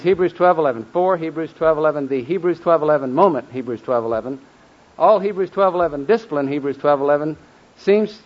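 reference chanted after every word, emphatic; loud, insistent repetitive drill; memorization drill demo. Shown as a demonstration. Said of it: "So like this".

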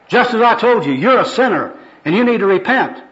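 high, insistent preaching; zealous street evangelist. Acted. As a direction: drive the point home at the sinner. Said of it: "This is the first personal worker".

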